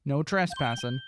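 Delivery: lightly voiced police detective with an accent; gruff cop role. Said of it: "I think I'm changing his accent again".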